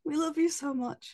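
stretched, yawning voice. Real, not acted. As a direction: say it through a big yawn. Repeated with yawn.

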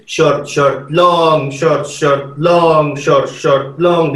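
chanting short, short, long for the seven; short long rhythm. Shown as a demonstration. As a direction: say the lengths like a teacher. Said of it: "they would teach you".

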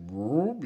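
quick rising "whoop" imitation; imitated voice noise. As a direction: mimic the unintelligible voice with a whoop. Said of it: "It was like".

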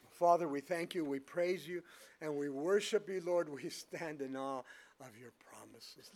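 measured, reverent pulpit prayer; public prayer. Real, not acted. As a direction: lead the congregation in prayer, slowing at the end. Leads closing prayer.

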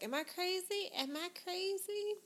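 a hint of a pleading high voice; mock distressed wife. Host imitating the upset wife at the table. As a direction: lightly imitate her asking am I crazy. Retelling the wife's tearful question.

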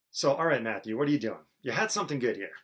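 lightly acted, emphatic challenge; mock remonstrance. An objector questions Matthew's genealogy, mildly exasperated mock protest. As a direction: take him to task, half in play.

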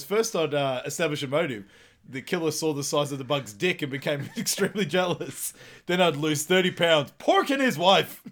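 lightly voiced cocky detective, rising; Ace Ventura voice. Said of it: "He goes".

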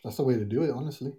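hushed, conspiratorial whisper; half-joking whisper; whispered aside. Real, not acted. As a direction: lean in and whisper the joke. Joking aside about marriage.

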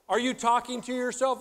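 wife calling to her husband outside. Retold or imitated. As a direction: shout it out the window. Wife calls out window.

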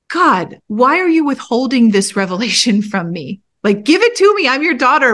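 high, insistent demand to God. Retold or imitated. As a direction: press God for an answer, pitch climbing.

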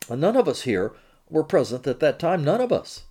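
French accent with a touch of Queens New York; French-accented English, a hint of Queens. Real, not acted. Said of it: "he says in a French accent with a bit of Queen's thrown in".

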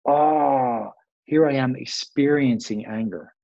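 calm noticing. Shown as a demonstration. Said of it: "if you could see".

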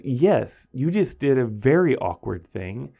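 slow retold insistence, punching "Yes" and "very"; firm, deliberate repeat of a reproach; emphatic insistence. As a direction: spell it out slowly for a student. Teacher insists, repeating to student.

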